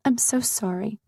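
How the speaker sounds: hushed apology, tears stinging; whisper. Acted. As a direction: breathe the apology out, close to crying. Ashamed, near tears.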